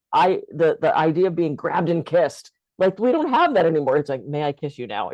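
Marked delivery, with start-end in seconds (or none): 4.3-5.1 softly voiced, tentative mock question; timid mock request. Woman mocks overcautious men asking permission, timid and soft. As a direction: ask it meekly, as a mild parody.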